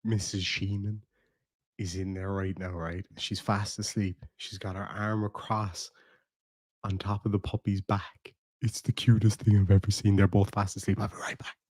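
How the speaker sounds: soft, hushed voice, trailing to a whisper. Real, not acted. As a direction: keep it low so she sleeps. Wife asleep in next room.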